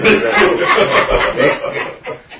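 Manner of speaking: loud, high burst of laughter; hearty laugh. Real, not acted. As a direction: crack up loudly at your own joke. Joking about squashing a roach.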